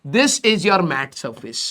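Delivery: very slow, soft and drawn out; slow emphatic teacher dictation. Shown as a demonstration. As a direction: dictate it word by word. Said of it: "ये वाला जो आपका surface है".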